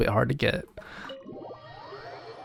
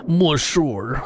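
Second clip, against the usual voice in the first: mock French accent on Monsieur; a hint of French accent; French-style Monsieur. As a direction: lightly imitate the NPCs' French Monsieur. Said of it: "the N P Cs say Monsieur".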